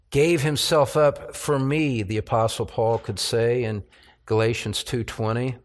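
calm, reverent pulpit prayer. Acted. Pastor leading the church in prayer, reverent and calm. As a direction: pray it unhurried and humble.

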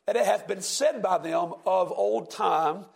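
slow, solemn King James reading; scripture reading. Acted. Preacher reading scripture to the class, slow and solemn. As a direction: read the old verse slowly, with weight.

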